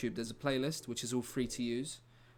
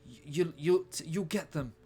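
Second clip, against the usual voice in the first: dying plea; 4 semitones higher than usual. Retold or imitated. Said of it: "Dingo says".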